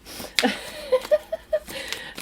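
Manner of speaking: high squeaky nervous giggle; nervous high laugh. Real, not acted. Vlogger shaken by a mouse, nervous high laugh.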